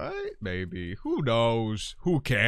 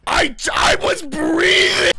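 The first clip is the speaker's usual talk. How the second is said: shout; 13 dB louder, slower than usual. Real, not acted. Gasping relief after near death.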